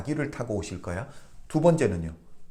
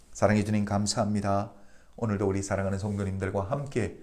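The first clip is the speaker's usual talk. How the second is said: even, level-toned spoken prayer; 3 semitones lower than usual. Real, not acted. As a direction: pray aloud in a lowered, steady voice. Leads closing prayer. (낮고 고른 어조의 기도)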